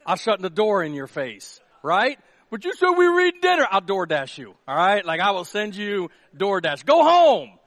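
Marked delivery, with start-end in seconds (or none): 2.5-3.7 high and loud complaint; pitched-up indignant guest; whiny guest protest. Acted. 6.9-7.6 shouted, high and firm; firm raised go home; loud command. Acted. Pastor sending guest away.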